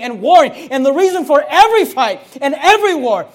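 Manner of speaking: loud, high, driving sermon climax; fervent pulpit crescendo; full force preaching. Acted. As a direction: preach it hard, building and pounding each clause.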